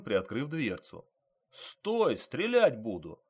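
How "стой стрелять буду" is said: high-pitched warning to fleeing suspects; shouted warning. Acted. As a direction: call a halt and threaten, voice raised in pitch.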